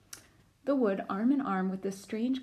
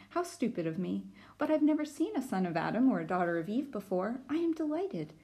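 nervous, delighted fawn; shy fawn voice. Acted. Fawn voiced in read-aloud.

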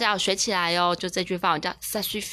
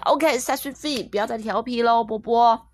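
mock-stern parent, a little raised; patience at its limit; 2 semitones higher, 4 dB louder than usual. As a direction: mildly scold a naughty child. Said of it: "我可以忍耐的极限的时候". (妈妈忍到极限，轻微地训孩子)

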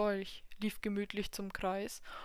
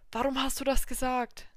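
angry cry; 4 semitones higher, 7 dB louder than usual. Acted. Devil confused and angry.

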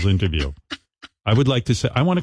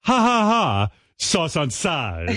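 mock Chinese accent; 5 semitones higher, much slower than usual. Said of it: "the Chinese woman goes".

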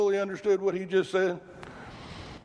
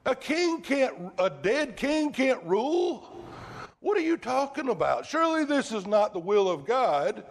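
grab his arm and scold him, pitched way up; a disciple protesting his master's talk of dying; Peter rebuking Jesus; 7 semitones higher than usual. Retold or imitated. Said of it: "Peter took him and began to rebuke him".

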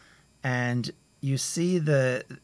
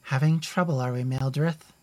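raised, louder, mock-sweet taunt; memorialist teasing; 3 semitones higher, 4 dB louder than usual. Memorialist taunting the searching elf, smug raised voice. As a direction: needle the elf with a smug question. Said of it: "the memorialist says".

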